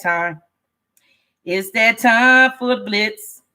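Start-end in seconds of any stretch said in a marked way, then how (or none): 1.4-3.4 slow, stretched announcer call; drawn-out announcement. Real, not acted. Host opens the blitz call, drawn-out announcement. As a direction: stretch the words out like an event announcer.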